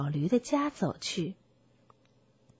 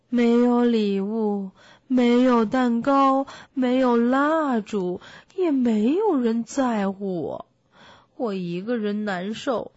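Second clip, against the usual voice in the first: tearful; 4 dB louder than usual. Acted. Lonely donkey laments his forgotten birthday, tearful. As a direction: lament with a touch of tears. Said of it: "老驴带着哭腔说道".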